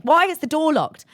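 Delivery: high-pitched imitation of a frantic demand; mock her yelling through a locked door. Mother hacking at the locked door, high mock yell.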